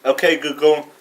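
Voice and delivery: repeating to voice assistant. Real, not acted. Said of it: "Sorry, I'm not sure how to help".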